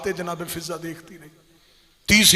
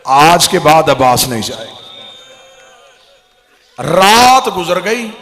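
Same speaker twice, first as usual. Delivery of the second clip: loud, wailing majlis recital building to a cry; grief-laden zakir's cry, loud and rising; impassioned preaching; 13 dB louder than usual. Acted. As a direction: pour it out to the mourners at full force.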